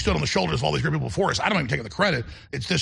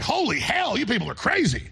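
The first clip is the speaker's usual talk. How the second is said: exasperated; 7 semitones higher than usual. Retold or imitated. His imagined exasperated reply.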